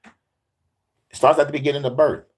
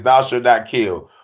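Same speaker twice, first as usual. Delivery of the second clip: 1 slow solemn quote. Acted. Quoting commandments solemnly.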